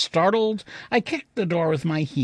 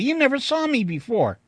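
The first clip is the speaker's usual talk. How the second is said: irritable; 8 semitones higher than usual. Acted. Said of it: "I said irritably".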